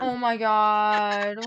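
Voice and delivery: stunned disbelief. Real, not acted. Reacting to the TikTok's ending.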